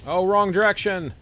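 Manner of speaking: high startled yelp; surprised yelp. Real, not acted. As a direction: blurt it out, startled. Yelps at game mistake.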